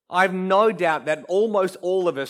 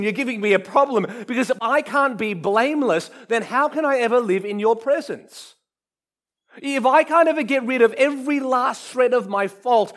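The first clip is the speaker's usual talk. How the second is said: a raised, pleading complaint to God, half laughing at first; mock exasperated plea; 5 semitones higher than usual. Preacher voicing a sinner who complains to God, exasperated. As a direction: let the frustration climb as you argue with God.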